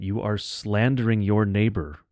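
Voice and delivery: ordinary talk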